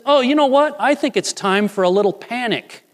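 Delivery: God cheekily announcing mischief; a mock divine aside; playful God voice. God voiced deciding on panic.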